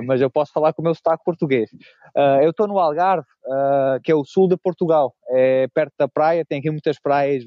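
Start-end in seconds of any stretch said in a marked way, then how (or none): 2.2-5.7 light attempt at a Brazilian Portuguese accent, estou softened to "tô"; a Portuguese guest trying to sound a bit Brazilian. Shown as a demonstration. Portuguese guest trying a Brazilian accent for Brazilian listeners, light Brazilian accent. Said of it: "vou tentar falar com um sotaque um pouco brasileiro".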